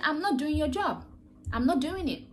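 high, loud defiant no, not NOT leaned on; firm refusal. Pretend. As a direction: stand up to the boss who piles work on you.

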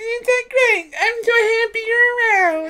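very high-pitched tiny creature voice; tiny cute voice. Acted. Player imagining how the little companion talks, tiny cute voice. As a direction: squeal it sweetly with a tiny voice box. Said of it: "I like his voice. He talks like this".

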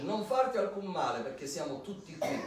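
high, loud urgent call, easing at the end; loud cry. A narrator's reading. Paul calling to the jailer about to harm himself, loud high cry. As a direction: cry out to stop him, then settle. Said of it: "Paolo gridò ad alta voce".

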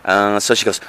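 normal talking voice

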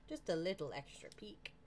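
whispered, coaxing aside; hushed little whisper; sneaky whisper. Real, not acted. Sneaking a peek at quarry.

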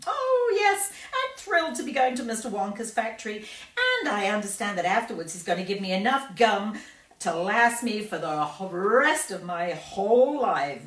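put-on gushing, thrilled girl; excited. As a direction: squeal with delight. Violet voiced.

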